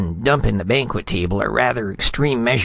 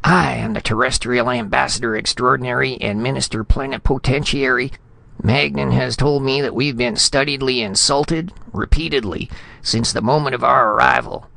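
high-pitched outrage, building louder; indignant tirade, breaking off; 8 semitones higher, 3 dB louder than usual. A narrator's reading. Insulted ambassador listing grievances to Retief, high and indignant. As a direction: rant on in wounded dignity until words fail. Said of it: "Spradley's voice broke".

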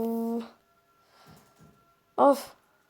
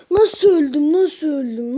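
loud disbelief; 3 semitones higher, 7 dB louder, slower than usual. Real, not acted. Disbelief at dying in game.

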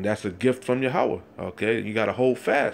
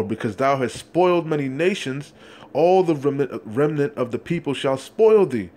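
fiery scripture reading. Acted. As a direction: preach the verse with mounting force. Street preacher reads scripture aloud.

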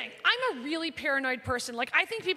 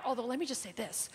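hushed, breathy confession to the crowd; whispered aside; 5 semitones lower, 9 dB quieter than usual. Real, not acted. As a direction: lean in and whisper it. Conspiratorial aside to audience.

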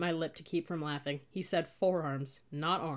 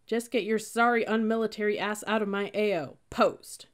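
louder, higher, contemptuous order; disgusted dismissal; 4 semitones higher, 6 dB louder than usual. A narrator's reading. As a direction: send her off with disgust. Troll dismissing the recruit.

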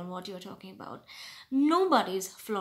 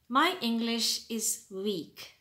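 wrong phrasing, slow. Shown as a demonstration. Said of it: "It's your English?".

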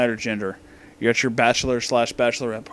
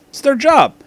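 high, loud outburst; exasperated shout; 13 semitones higher, 9 dB louder than usual. Real, not acted. Reviewer defending the stripper's pay, exasperated shout. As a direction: cry it out as the rant's climax. Climax of rant about paying stripper.

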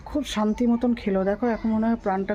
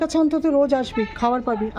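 tender promise; 3 semitones higher, 4 dB louder than usual. Real, not acted. Promising the stray food every day, tender. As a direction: reassure the dog it will be fed.

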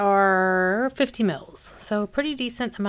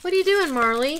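much higher sing-song voice for the cat; 8 semitones higher, 7 dB louder, faster than usual. Real, not acted. Greeting her cat.

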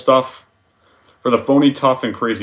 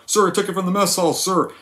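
higher, timid recruit answering; Private Pyle; 7 semitones higher than usual. Retold or imitated. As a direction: answer meekly, staying at attention. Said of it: "How does the scene go?".

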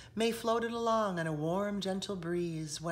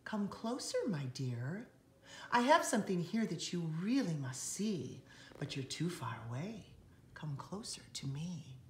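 sweetly luring. Acted. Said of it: "it pleasantly said".

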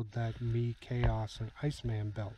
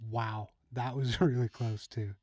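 laughing relief. Real, not acted. Near miss by a paintball.

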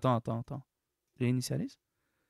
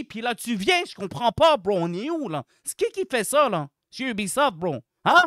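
loud, exasperated tirade; worked-up, indignant complaining; irritated rant; 4 dB louder than usual. Real, not acted. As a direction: scold the developers in disbelief. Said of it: "c'était encore elle énervée".

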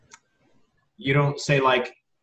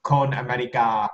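Thai accent. Shown as a demonstration. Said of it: "you say".

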